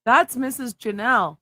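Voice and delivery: "Missus" diucapkan tegas dan keras; stress on Missus. Real, not acted. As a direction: lean hard on "Missus" as a correction. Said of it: "I didn't stutter".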